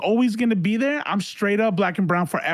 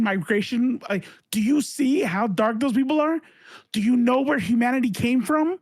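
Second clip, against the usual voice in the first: higher-pitched, incredulous challenge; indignant comeback; 5 semitones higher than usual. Retold or imitated. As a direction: fire off exasperated questions, pitch climbing. Acted angry argument with online stranger.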